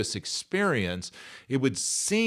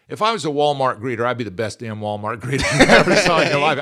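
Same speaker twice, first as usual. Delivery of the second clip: fired-up boast; 3 semitones higher, 8 dB louder, faster than usual. Real, not acted. Bragging about being a Walmart greeter.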